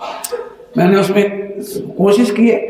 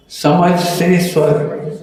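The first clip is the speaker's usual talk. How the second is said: slow title; much slower than usual. Shown as a demonstration. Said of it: "book title repeated".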